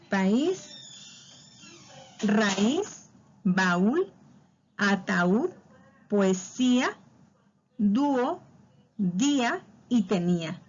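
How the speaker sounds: país, raíz, baúl recited singly, leaning on each Í or Ú; teacher's example list, accented vowel stretched in each word; stressed closed vowel. Shown as a demonstration. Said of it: "debe acentuarse la vocal cerrada".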